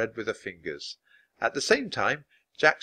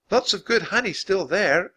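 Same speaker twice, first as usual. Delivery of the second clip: higher, friendly offer with a smile; smiling; 9 semitones higher, 4 dB louder than usual. A narrator's reading. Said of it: "Annie said, smiling".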